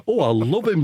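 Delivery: lightly mock homely northern voice; Phil Jones. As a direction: gush in a borrowed comedian's accent. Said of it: "I'll say that Phil Jones talks like that then".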